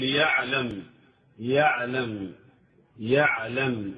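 يعلم with the ع passing briefly, never lingered on; ayn not held too long. Shown as a demonstration. Teacher warns students against lingering on ع in يعلم. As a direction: say يعلم without stopping on the ع. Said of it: "فينبغي أن لا تقف كثيرًا عند العين".

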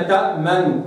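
تأمنوا with the damma quick and light; stolen damma. Shown as a demonstration. Teacher contrasting the light damma. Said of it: "أنا ما قلتش تأمنوا".

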